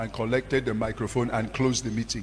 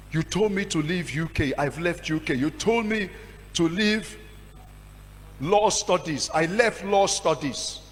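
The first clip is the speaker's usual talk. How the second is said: desperate cry to God; 4 semitones higher than usual. Retold or imitated. Crying out to God in despair.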